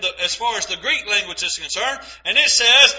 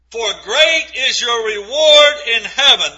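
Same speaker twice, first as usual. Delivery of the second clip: reward in heaven rung out louder; preached emphasis; 4 dB louder than usual. Acted. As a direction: proclaim reward to the congregation. Preached quote then "There's the key.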